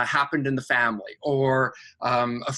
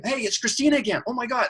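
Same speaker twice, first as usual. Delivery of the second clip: excited angel; 8 semitones higher, faster than usual. Retold or imitated.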